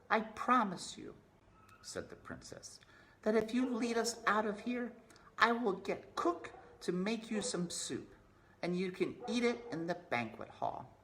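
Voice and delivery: high, earnest promise; high princess voice promising soup. Acted.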